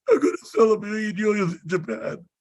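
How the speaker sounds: high, rushed whiny recital; reluctant declaration. Retold or imitated. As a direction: reel it off quickly under pressure. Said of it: "And I'm like".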